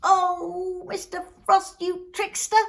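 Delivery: high, loud tirade of grievances; despairing complaint. Acted. Poor man accusing the trickster Frost, despairing. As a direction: pour out troubles in a high, agitated voice. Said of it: "I am in despair".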